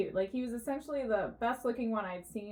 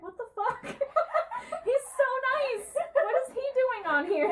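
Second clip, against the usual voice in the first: high, louder laughing outburst; laughing disbelief; 13 semitones higher, 5 dB louder than usual. Retold or imitated. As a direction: laugh through the shock, voice jumping up. Retelling her shocked reaction.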